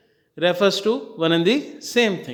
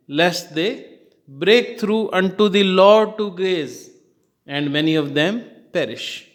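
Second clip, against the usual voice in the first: reading scripture. Shown as a demonstration. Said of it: "in the Bible it is written".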